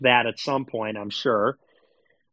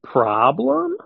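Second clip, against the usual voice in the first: taunting; 3 semitones higher, 4 dB louder than usual. Pretend. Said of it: "taunting repeated question".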